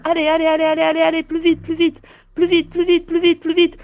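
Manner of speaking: urgent shouting. Acted. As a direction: yell them on, building with each plus vite.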